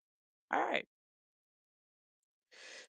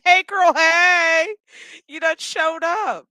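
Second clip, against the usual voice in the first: high, drawn-out sing-song hail; hammed-up greeting; 8 semitones higher, 5 dB louder than usual. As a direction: crow it high like a sassy mock welcome. Borg Queen's greeting, hammed up.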